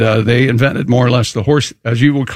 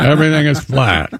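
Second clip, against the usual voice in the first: flat-talking impression. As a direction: stretch the words out, lightly mimicking a flat talker. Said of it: "He talks like this. Very flat".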